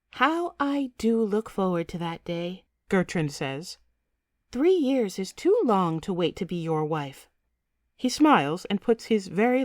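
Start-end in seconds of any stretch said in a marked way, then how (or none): 0.1-2.6 lightly voiced eager bride-to-be; a hint of a wistful young princess; girl's voice. Betrothed girl speaks to her prince. 4.5-7.3 lightly voiced eager bride-to-be; a hint of a wistful young princess; girl's voice. Betrothed girl speaks to her prince.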